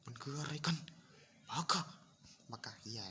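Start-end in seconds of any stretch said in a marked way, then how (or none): 0.0-0.8 baffled. Real, not acted. Baffled by the bug. 1.5-1.8 exasperated. Real, not acted. Yelling at game bug.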